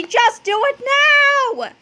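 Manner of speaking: high, urgent order; frantic scream. A narrator's reading. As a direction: cry it out, desperate for action. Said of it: "screamed Fluffy".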